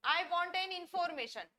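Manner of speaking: each word spaced out slowly for students; slow model sentence. Shown as a demonstration. Teacher reading an example sentence for learners, slowly. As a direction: dictate it slowly. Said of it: "गलत sentence".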